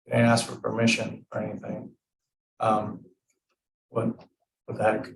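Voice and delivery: even, unhurried and honest; a light demo of owning your feelings without blame; mild, non-accusing explanation; calm I-feel tone. Shown as a demonstration. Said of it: "You feel less attacked".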